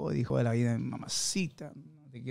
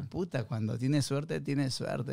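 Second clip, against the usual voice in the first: slow deadpan punchline; much slower than usual. Acted.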